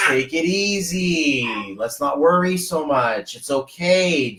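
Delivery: slow, drawn-out reassurance; mock soothing. Telling someone not to worry so much, slow soothing. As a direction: stretch the words to calm them down. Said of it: "And I'm like".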